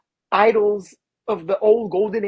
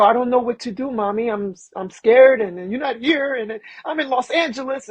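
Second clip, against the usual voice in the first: scared, to mom; 3 semitones higher than usual. Retold or imitated. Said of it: "I go".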